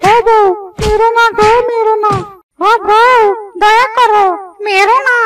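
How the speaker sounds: a touch of whimpering plea; begging. Acted. Husband begs his wife not to beat him, mildly whimpering. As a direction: plead with her to stop hitting.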